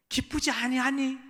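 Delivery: high, drawn-out question brimming with joy; overflowing joy. Acted. Father urging his elder son to rejoice, overflowing with joy. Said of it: "감격이 막 넘쳐서는".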